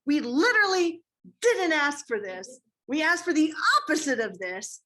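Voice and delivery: a touch of hammed-up disbelief; mock exasperated protest. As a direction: play-act being wronged, pitch lifted. Acted protest in quarrel retold.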